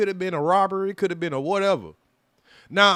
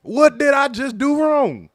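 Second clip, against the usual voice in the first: retold angry protest; 6 semitones higher, 4 dB louder than usual. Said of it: "I'm like".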